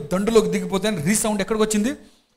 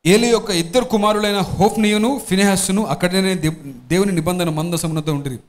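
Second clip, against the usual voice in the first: scripture reading; 4 dB louder than usual. Acted. Pastor reads Bible passage aloud.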